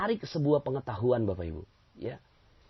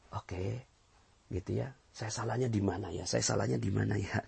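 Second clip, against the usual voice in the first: 1 quiet reflection; 3 semitones lower, 6 dB quieter than usual. Retold or imitated. Prophet quietly self-reflecting.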